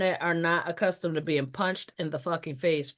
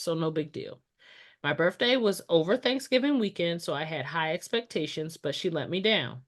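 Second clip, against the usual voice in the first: fireside storytelling. Shown as a demonstration. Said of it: "prepare my storytelling voice".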